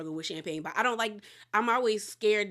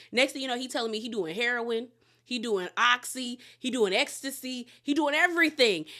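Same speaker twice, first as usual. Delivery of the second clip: building disbelief; 3 semitones higher than usual. Retold or imitated. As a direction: pile it on until the final word. Listing son's drugs, building.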